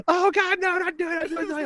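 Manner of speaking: very high panicked pleading; mock screaming. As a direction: shriek "no, don't do it" like appalled adults. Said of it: "everyone is just screaming".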